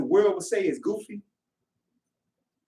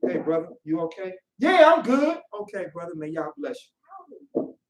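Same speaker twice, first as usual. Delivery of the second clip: calm reply. Retold or imitated. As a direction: soothe a brother who ignored you. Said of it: "a man with peace is like".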